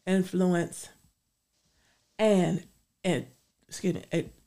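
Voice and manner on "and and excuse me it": fighting off a sneeze; talking through a tickle in the nose; holding back a sneeze. Real, not acted. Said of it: "I'm trying not to sneeze".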